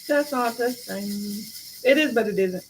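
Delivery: talking through a yawn; slow, stretched words mid-yawn. Real, not acted. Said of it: "I'm sorry for the yawns".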